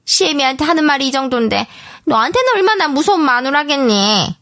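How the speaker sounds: put-on high-pitched, insinuating older relative; scheming mother-in-law. A narrator's reading. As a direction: feign fairness while slyly badmouthing, pitched high. Mother-in-law's quoted speech.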